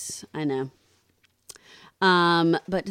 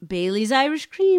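raised, louder answer announcement; triumphant reveal; 6 semitones higher, 6 dB louder than usual. Real, not acted. Host revealing the liquor answer, excited. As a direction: sing out the winning answer.

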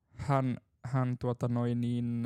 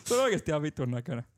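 talking through real laughter, higher at the end; laughing; 5 semitones higher than usual. Real, not acted. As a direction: crack up while insisting. Cracking up at own anecdote. (nauraen, naurun läpi puhuen)

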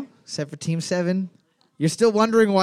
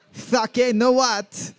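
laughing, higher attempt at a French accent; bad French accent; 5 semitones higher, slower than usual. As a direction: put on a poor French accent, through laughter. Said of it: "I'm not good at a French accent".

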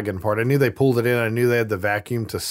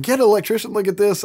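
Mister Teague; 10 semitones higher than usual. Retold or imitated. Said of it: "He's like".

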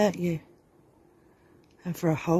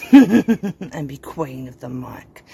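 loud slow boast; 11 dB louder, slower than usual. Acted.

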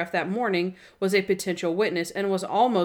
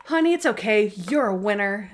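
consoling mom. Acted. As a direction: lightly act a mother's reassurance. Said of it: "when your mom tells you".

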